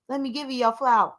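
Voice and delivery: brisk throwaway quote; quick quoted aside. Shown as a demonstration. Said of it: "repeats it more strongly".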